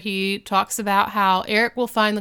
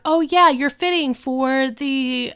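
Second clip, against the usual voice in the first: bouncy; 4 semitones higher, slower than usual. Retold or imitated. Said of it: "Topanga comes bouncing back over".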